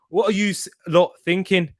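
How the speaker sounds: badly attempted Teesside accent. Shown as a demonstration. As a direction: have a shaky go at Teesside, drifting towards Scottish. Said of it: "in a Teesside accent".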